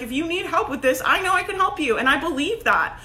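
assertive. Acted. Coach promising she can help you, assertive. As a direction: pitch it with conviction. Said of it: "like, I'm assertive. I'm like".

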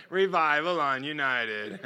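said through real laughter; chuckling with delight; laughing. Real, not acted. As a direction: laugh while you repeat it. Repeating it while laughing.

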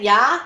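"Yeah" as an open "yah", rising; imitated "yeah". Shown as a demonstration. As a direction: say "Yeah" like "yah", asking agreement. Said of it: "I'm saying".

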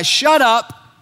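a sharp command to silence the demon; stern rebuke. Acted. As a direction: bark "Shut up" at the demon. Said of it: "Jesus told this guy".

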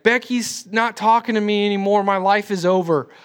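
lightly mocked adolescent despair; melodramatic teenager. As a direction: imitate a middle schooler's little crisis. Imitates teen's overblown crisis.

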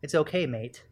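put-on a weak stab at an English accent; lightly put-on English accent, not very convincing; bad English accent. Co-host imagining what Alex would say, weak English accent. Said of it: "That was my English accent".

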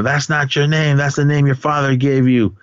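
a hint of a screaming mother; mild mock scream. Mother screaming at her son about his name, mild mock scream. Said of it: "And she's screaming out".

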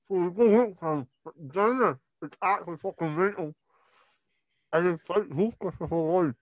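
chewing while talking; mouth full. Real, not acted. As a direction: talk through food in the mouth. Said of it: "even after you chewed it".

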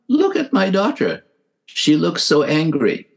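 high, eager call to the room; proud new mother calling out to the nurses; excited mother's exclamation. Retold or imitated. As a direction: point out the baby in delighted surprise.

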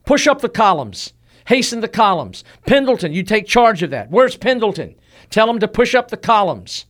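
rally the columns from a fevered deathbed; a general calling out orders in delirium; delirious battle orders. Acted. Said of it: "audibly to all those in the room ordered".

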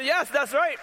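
high, lively yes; excited agreement. Retold or imitated. Agreeing with the coworker's wife, high and lively. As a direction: agree with full joy.

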